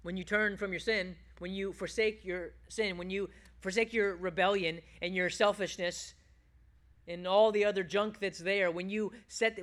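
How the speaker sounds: normal talking voice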